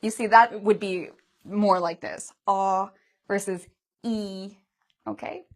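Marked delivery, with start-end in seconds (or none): 2.5-4.6 slow ah then E, mouth open then spread; ah versus E. Shown as a demonstration. Teacher compares ah and E for students, slowly. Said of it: "you can compare this to ah".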